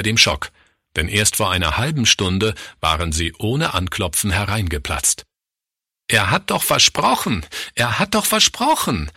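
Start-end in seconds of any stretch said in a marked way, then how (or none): 6.1-9.1 high-pitched exclamation, rising on the repeat; distraught cry. A narrator's reading. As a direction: cry out a broken promise in disbelief. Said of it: "rief Pastor Fritz".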